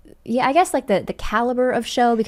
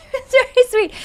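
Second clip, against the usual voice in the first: much higher, squeaky with fondness; high touched repeat; 6 dB louder, faster than usual. Real, not acted. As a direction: squeak it out, melting at the memory.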